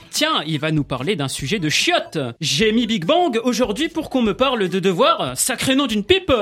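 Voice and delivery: put-on southern French accent, rising at the end. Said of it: "pourquoi tu prends l'accent du Sud?".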